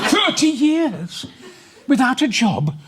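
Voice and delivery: high shouted yob rant; mock angry shout. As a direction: yell it like a pub hard man. Comic rant at a quote subject.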